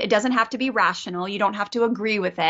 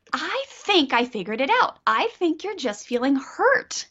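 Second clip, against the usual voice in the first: put-on higher-pitched, child-directed explaining; gentle parent; 5 semitones higher than usual. Mom telling son she figured out his hurt, gentle parent. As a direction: demonstrate gently naming a child's feeling.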